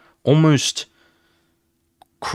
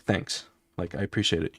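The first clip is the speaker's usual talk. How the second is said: much softer, lower thank-you; 4 semitones lower, 9 dB quieter than usual. Acted. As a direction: quietly thank him before the kill. Killer softly thanks victim.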